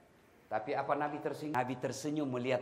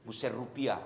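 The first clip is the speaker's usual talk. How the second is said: usual speaking voice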